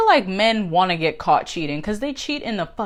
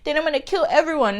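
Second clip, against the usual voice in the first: mock Batman. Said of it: "the Batman we know is more of like".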